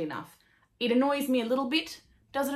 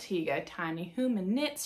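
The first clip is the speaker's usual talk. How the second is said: a faint attempt at a Canadian accent that came out Texan; failed Canadian accent. Thanking the Canadian yarn maker, faint Canadian accent attempt. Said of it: "That was Texan".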